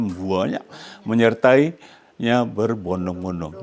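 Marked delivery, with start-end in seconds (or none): 0.0-0.6 "banyak" said the Javanese way; Javanese-style "buanyak". Shown as a demonstration. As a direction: put a Javanese swell into "banyak". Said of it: "Orang Jawa kata".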